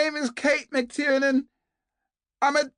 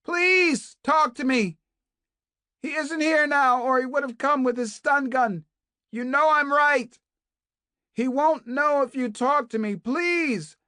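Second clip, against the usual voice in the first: much higher and louder, pleading; desperate begging shout; 9 dB louder than usual. A narrator's reading. Kate begs Naomi to talk, desperate shouting plea. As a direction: beg at full voice through the wall. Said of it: "beginning to sound hoarse".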